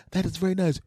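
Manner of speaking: high, polite female voice; reply sweetly as the wife in a high pitch; lifted, dainty woman's voice. Acted. Acted wife in comic bit.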